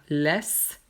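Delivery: laisse as "lèss", ai as open è; grave vowel. Shown as a demonstration. Teacher gives double S example, open è in laisse. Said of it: "quand il y a S S après".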